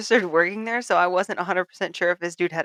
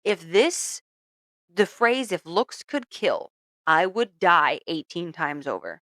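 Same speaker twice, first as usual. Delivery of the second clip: slow dread; 4 dB louder, slower than usual. Retold or imitated. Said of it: "I'm like".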